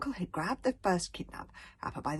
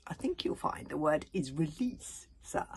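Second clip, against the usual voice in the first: polite. Acted. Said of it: "advised Hiccup politely".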